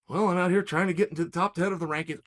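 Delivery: mock fighter. Mocking a fighter's excuse.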